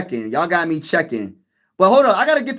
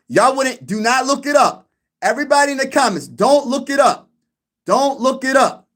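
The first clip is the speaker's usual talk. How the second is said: playful warning; 6 semitones higher than usual. Real, not acted. Teasing viewers not to cheat.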